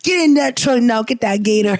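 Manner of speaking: badly faked Midwestern truck-and-gator voice; bad white-person impersonation. Comedian failing a Midwestern audition, hammed-up impersonation. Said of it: "my impersonation of a white person".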